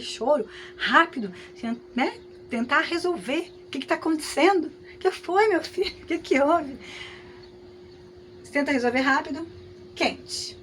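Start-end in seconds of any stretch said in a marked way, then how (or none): 3.7-6.8 higher, concerned voice for a little one; soothing a crying child. Pretend. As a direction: ask the crying child what's wrong, gently urgent. (voz preocupada acalmando a criança que chora)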